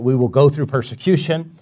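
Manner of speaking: PERSECUTION given the weight at the end; stress on persecution. Shown as a demonstration. Preacher showing the common misreading, stress on persecution. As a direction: lean on the word persecution. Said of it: "almost the emphasis on the persecution".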